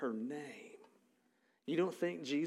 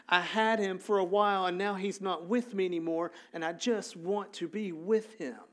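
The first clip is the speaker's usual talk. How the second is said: higher-pitched, insistent plea; acted desperation, pressing on phrase after phrase; desperate pleading; 4 semitones higher than usual. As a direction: plead urgently as a grieving follower. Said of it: "Mary is so desperate".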